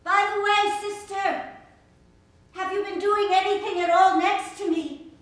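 loud call to the sister. Acted. Speaker calling out to the sister, loud. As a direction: call out across the room to her.

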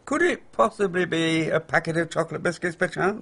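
sarcastic. Acted. Mocking her obvious hint.

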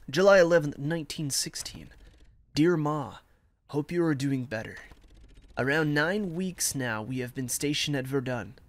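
measured letter read-aloud. Acted. Soldier writing to his Ma from Verdun, measured letter reading.

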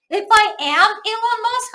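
slow, deliberate English example; slow wrong example. Shown as a demonstration. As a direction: spell out the wrong form slowly. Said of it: "현재 동사 쓰면 안 됩니다". (틀린 예문을 천천히)

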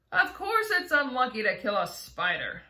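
loud, insistent retort; shouted. Acted. Centipede answers James, loud and insistent. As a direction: bark it back emphatically. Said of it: "shouted the centipede".

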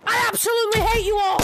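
high, very loud mock rage; hammed-up furious shout. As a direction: yell it at full volume in play fury. Mock farewell outburst at game characters.

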